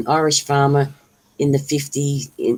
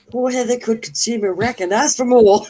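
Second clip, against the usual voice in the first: mock pompous reading; 9 semitones higher, 6 dB louder than usual. Mock reading of Deb's comment.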